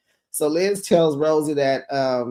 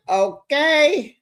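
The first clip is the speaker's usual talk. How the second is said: much higher drawn-out "Okay"; amused okay; 10 semitones higher, 3 dB louder than usual. Real, not acted. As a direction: react with amused disbelief.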